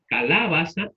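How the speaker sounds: calabaza as caLÁbaza; stress on the antepenultimate syllable. Shown as a demonstration. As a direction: put the weight on la in calabaza. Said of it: "sería en la antepenúltima sílaba".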